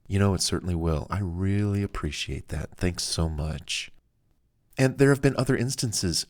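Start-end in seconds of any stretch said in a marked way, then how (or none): 0.1-3.9 grateful and soft. Retold or imitated. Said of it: "tone is good and soft-spoken".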